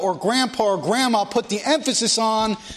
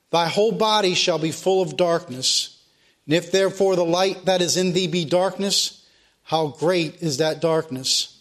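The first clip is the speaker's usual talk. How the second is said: scripture reading; 3 semitones lower than usual. Acted. Preacher reading scripture to his congregation, solemn. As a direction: read the verses to the congregation with weight.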